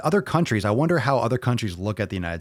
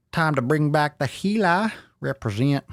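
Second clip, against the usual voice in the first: put-on revive the old Heli persona with swagger; 6 semitones higher than usual. Bringing back his old Heli character for viewers, hyped. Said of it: "Maybe I'll bring back old Heli".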